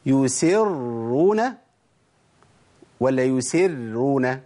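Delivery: يسرون recited slowly, both r's thick; correct heavy r. Shown as a demonstration. Teacher reciting the example, slow heavy r in يسرون. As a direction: hold a full, heavy doubled r in يسرون. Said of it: "ما اسحبش الراء الأولى للترقيق".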